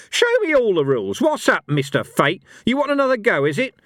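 high, loud taunting fury; furious challenge to Mister Fate; raging. Acted. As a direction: bounce with rage and goad him. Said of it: "dancing with rage".

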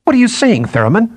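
high-pitched indignant outburst; shocked, angry challenge; astonished fury. A narrator's reading. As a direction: react in furious disbelief, pitch leaping up. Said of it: "eyes widened in astonishment and fury".

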